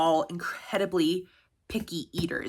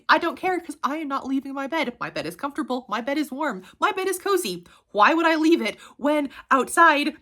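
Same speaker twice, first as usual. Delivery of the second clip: put-on whiny child refusing to get up, higher and fast; stubborn kid; 5 semitones higher, 3 dB louder than usual. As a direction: play the lazy boy who won't budge. Boy refusing to leave bed.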